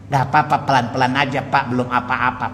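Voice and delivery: low-pitched, easygoing reassurance; lightly acted placating doctor; soothing doctor. Doctor telling the patient it is nothing yet, low and reassuring. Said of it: "supaya pasiennya nggak tersinggung".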